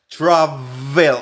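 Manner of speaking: "travel" with a ch-like tr and buzzing v; ch-style tr. Shown as a demonstration. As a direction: say "travel" as "chravel". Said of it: "R es ch".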